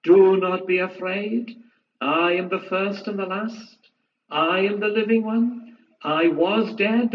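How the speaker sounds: a hint of a calm divine comforter; gentle majestic reassurance; voice of Jesus. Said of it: "and say".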